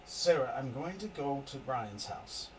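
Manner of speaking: calm, steady husband soothing his wife; husband reassuring wife. Acted. Husband calming his frantic wife about the grove. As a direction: settle her down, promise action.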